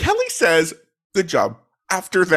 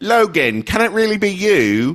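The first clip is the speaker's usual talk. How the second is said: put-on Cockney woman's voice, pitched up; 6 semitones higher, 3 dB louder than usual. Voicing the woman in a two-voice scene, in a Cockney accent. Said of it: "the man will be in like a um gruff accent".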